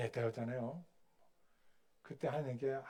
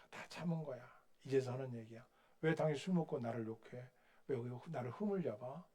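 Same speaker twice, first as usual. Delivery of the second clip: calm firm rebuke; 6 dB quieter than usual. Retold or imitated. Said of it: "이렇게 얘기를 하더래요".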